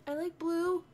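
pleased, high-pitched reaction; delighted. Real, not acted. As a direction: coo over a new find. Delighted reaction to blue slippers.

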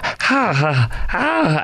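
mock politician's "ha", pitch leaping high; Hakeem Jeffries. Host attempting a politician impersonation, goofy high swoops. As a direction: swoop up on each empty syllable. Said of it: "I can't impersonate him".

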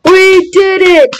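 slow, high victory cry; triumphant cheer. Real, not acted. Gamer celebrating a win, slow triumphant cheer. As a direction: stretch out the win with elation.

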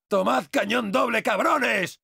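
high-pitched battle taunt; taunting shout. Acted. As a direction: shout it at the enemies as you fire. Taunts enemies while firing.

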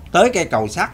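usual speaking voice

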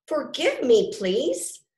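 nice apology. A narrator's reading. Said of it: "he nicely said".

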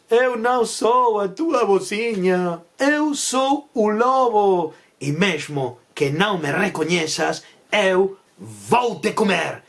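slow, drawn-out storybook wolf threat; wolf revealing himself, slowly; menacing wolf. Acted. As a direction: stretch out the words like a wolf announcing his meal.

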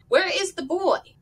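high, loud startled question; shocked demand. Acted. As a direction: demand it in alarm. Marilla shocked to see girl.

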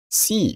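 "See" with the tune lifted upward; rising intonation. Shown as a demonstration. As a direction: swing high on "See". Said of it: "语调上扬".

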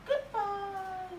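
Disney-style praise, way up high; high dog praise. Real, not acted. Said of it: "จะมีแม่เสียงสูง".

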